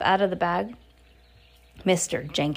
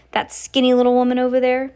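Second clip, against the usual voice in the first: incredulous; 4 semitones higher, 6 dB louder, faster than usual. Acted. Incredulous angry father.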